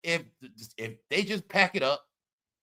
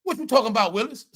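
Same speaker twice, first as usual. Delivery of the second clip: quoting the catchphrase; 3 semitones higher, 3 dB louder, faster than usual. Retold or imitated. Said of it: "that's what they said".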